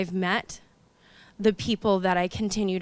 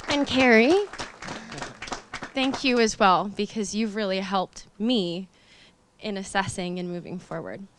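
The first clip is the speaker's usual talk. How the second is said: holding back real tears; tearful; 4 semitones higher, 4 dB louder than usual. Real, not acted. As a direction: voice tight with tears, pitch lifting. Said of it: "or else I'm gonna keep crying".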